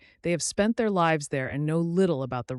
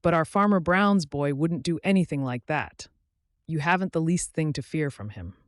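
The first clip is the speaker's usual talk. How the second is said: eager; 4 semitones higher, 8 dB louder than usual. A narrator's reading. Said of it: "Then he added eagerly".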